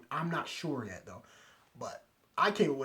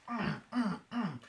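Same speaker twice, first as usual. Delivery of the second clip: short grunted punch noises; mimicked fight sound effects; imitated blow grunts; 6 semitones higher, slower than usual. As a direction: grunt once for each blow landing. Mimics blows landing while retelling fight.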